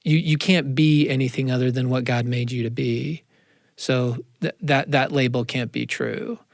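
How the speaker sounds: put-on calm the scared kid down; reassuring parent. Parent gently reassuring a panicked teenage kid. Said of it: "I'd first be like".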